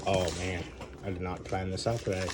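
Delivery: tired, hungover mumble. Real, not acted. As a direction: sluggish morning-after voice. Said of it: "I'm a little hungover".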